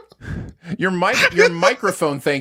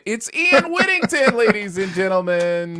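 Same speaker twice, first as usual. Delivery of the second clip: hype intro; 9 semitones higher, 4 dB louder than usual. Acted. Hyping guest intro.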